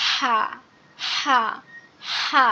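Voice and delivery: হা pressed out from mid-throat; squeezed-throat pronunciation. Shown as a demonstration. Teacher demonstrates the big ha, tight-throated হা. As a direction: squeeze the throat on each separate হা. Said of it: "গলা চেপে উচ্চারণ হবে".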